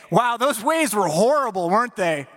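a hint of casual banter; mock alternative line. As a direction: toss it off like small talk. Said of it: "Jesus didn't say".

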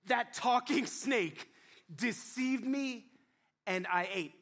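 slow, drawn-out blaming; excuse-making Eve. Acted. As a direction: point at the snake, slowly. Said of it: "Here's what Eve says".

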